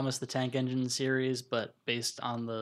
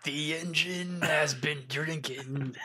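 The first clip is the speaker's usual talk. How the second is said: whisper; much slower than usual. Pretend. Narrator of gritty reboot.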